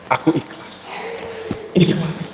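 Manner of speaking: whispered surrender, barely voiced. Man whispers to himself that he forgives the debt, whispering. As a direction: breathe the words out as you give up the debt. Debtor quietly says he lets go.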